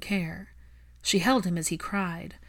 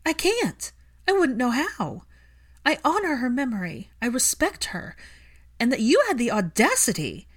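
high, loud and trembling with hurt; angry tears, voice shaking high; 6 semitones higher, 5 dB louder than usual. Acted. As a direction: let the anger crack into hurt. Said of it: "Hermione's voice shook".

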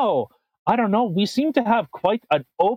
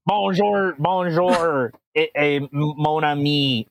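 mock French accent; 3 semitones lower, slower than usual. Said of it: "I'm getting into".

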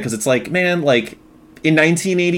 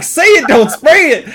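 snarky doll comeback; 13 semitones higher, 7 dB louder than usual. Retold or imitated. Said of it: "he's like".

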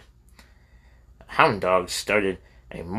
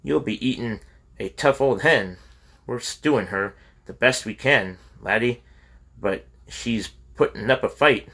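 mildly good-natured, easy teasing; a touch of homely good humor; understated cheerful Scots wife; 2 semitones higher than usual. Acted. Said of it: "she said good-naturedly".

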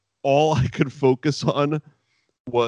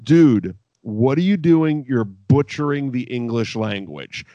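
imitated put-down, hit loud at the start; talking down; 4 dB louder than usual. Rival commentator talks down to Taz on national television, imitated scolding. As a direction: scold him with mock disbelief. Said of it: "talking down to him".

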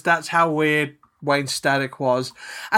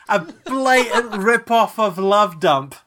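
laughing; 4 semitones higher, 4 dB louder than usual. Real, not acted. Laughing through the comparison.

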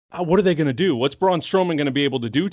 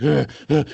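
mock effort grunts; two short grunts, as if throwing punches; imitated punching grunts. Imitating wrestler punching his rival, mock grunts. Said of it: "Seth Rollins is just like".

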